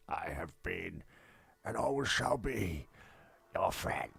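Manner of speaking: soft, slow solemn farewell; lightly voiced Spock, slow and solemn; imitating Spock. Spock saying farewell through the glass, in a soft slow voice. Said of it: "and he goes".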